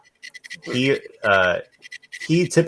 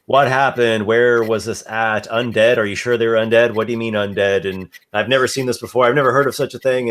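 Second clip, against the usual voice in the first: a touch of worry, rushing the last lines; mildly anxious innkeeper's wife, faster at the end; concerned questions; faster than usual. Acted. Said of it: "very concerned, asking many questions".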